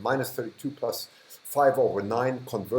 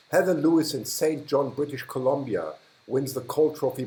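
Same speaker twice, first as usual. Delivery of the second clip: mock award announcer; 2 semitones higher than usual. Streamer crowning a chatter with the cold trophy, mock announcer voice. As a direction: announce the winner like a game show host, half joking.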